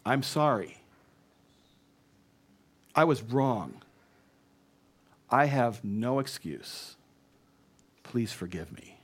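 measured apology with long pauses; sincere apology. Shown as a demonstration. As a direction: own it simply, softening at the end. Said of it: "this is an apology that passes".

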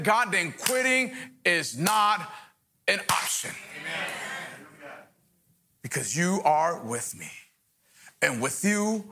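earnest spoken prayer to God. Acted. Pastor praying aloud for the church, earnest prayer. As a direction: pray it out over the room.

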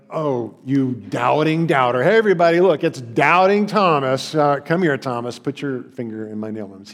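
imitating a jeering taunt, calling out; mock the doubter in front of everyone. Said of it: "Jesus didn't mock him like".

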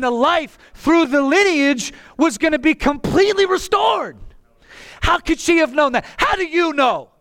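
fired-up pulpit yell; yelling preacher. Real, not acted. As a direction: press each question on the congregation at a near yell. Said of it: "I have to yell".

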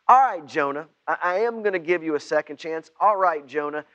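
a loud, firm God voice; God giving second chance. Acted. God to Jonah, loud and firm second chance. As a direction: speak as God offering mercy.

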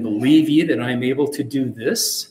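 "this" stressed with a rising question tune. Shown as a demonstration. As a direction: lean on the final word "this". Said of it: "lay special emphasis on the word "this".

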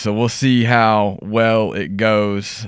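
numb mouth after dental work; slightly slurred numb face; numb from the dentist. Real, not acted. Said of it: "The whole side of my face is numb".

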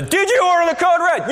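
hammed-up lawyer grilling a witness; mock courtroom yell. Lawyer grills the witness on the stand, high mock yell. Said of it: "he's got the dude on the stand and he's like".

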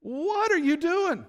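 high, loud "Dude!" blasting out; mock outraged yell, then settling; outraged shout. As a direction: yell it like your farm just burned. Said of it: "Joab shows up and he's like".

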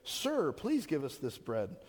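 slow, courteous request; polite. Shown as a demonstration. Crowd asking Jesus for bread, slow and polite. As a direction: ask politely and slowly, as the text reads. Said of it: "It sounds polite".

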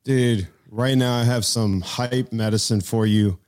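loud, pumped-up hype; hype man. Acted. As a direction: pump him up like a hype man. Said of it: "Are you gonna be able to be my hype man".

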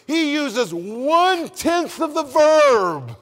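builds to a loud, high, slow shout; preacher hammering the point; preaching. Acted. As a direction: shout the climax.

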